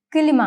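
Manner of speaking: "കിലിമ" with a short vowel between k and l; Turkish pronunciation. Shown as a demonstration. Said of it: "കിലിമ എന്നാണ് വായിക്കേണ്ടത്".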